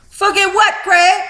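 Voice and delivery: high, puzzled "forget what"; mock bewildered pitch jump; baffled question. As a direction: ask it baffled and sharp. Retelling her baffled reply.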